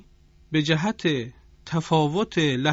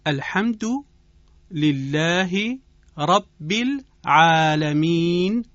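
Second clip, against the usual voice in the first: slow, measured Arabic tajwid accent; teacher's deliberate Arabic-accented demo; 2 semitones higher, 4 dB louder, much slower than usual. Shown as a demonstration. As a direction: model it in Qur'anic Arabic, long drawn vowels. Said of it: "عربی خواندن قرآن رو بیاموزد".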